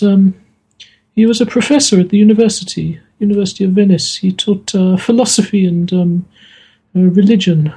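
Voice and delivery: a hint of a grieving daughter recalling her papa; voiced Maria. The GM as Maria telling the guest about her papa, lightly voiced and halting.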